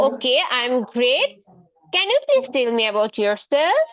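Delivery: very slow, clearly spaced English; teacher modelling slow English for a shy pupil. Acted. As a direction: lay out every word slowly for young learners.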